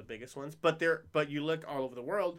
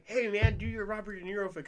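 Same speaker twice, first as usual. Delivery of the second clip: higher, louder call-out; hey-man heckle, raised voice; fan's eager request; 5 semitones higher, 3 dB louder than usual. Retold or imitated. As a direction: pester a guy for his party trick. Acting out fans' demand.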